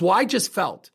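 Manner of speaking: quick upset blurt; flustered friend. Retold or imitated. Friend blurting out to the speaker, upset. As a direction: blurt it out, all feeling. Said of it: "She goes".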